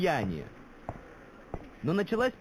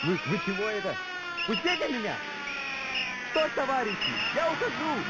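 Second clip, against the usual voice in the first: protesting alarm; 12 semitones higher than usual. Acted. Dragged away protesting.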